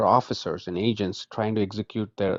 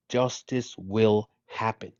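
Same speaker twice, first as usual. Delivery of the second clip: slow, spaced-out "justice will happen"; insistent vow; slower than usual. Real, not acted. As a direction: set down "justice", "will" and "happen" one at a time. Slow insistent repeat of his claim.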